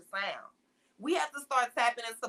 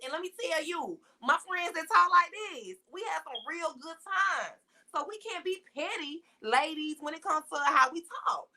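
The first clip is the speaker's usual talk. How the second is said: higher-pitched, lively Black American vernacular; casual Black vernacular; 4 semitones higher than usual. Shown as a demonstration. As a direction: talk like a girlfriend in Black English. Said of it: "go back and forth from those two types of conversations".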